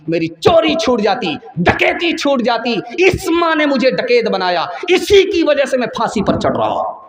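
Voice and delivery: an accusing son, half crying by the end; condemned son's outburst. Acted. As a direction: son blaming his mother before the gallows. Condemned son rebukes the ruler.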